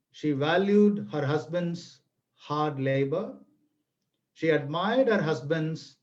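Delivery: unhurried folk-tale narration with a little theatrics; story narration. A narrator's reading. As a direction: draw the listeners into an old village tale.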